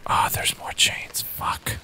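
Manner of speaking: tense whisper. Real, not acted. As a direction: whisper in dread. Sneaking through chains.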